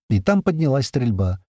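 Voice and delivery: ordinary delivery, nothing marked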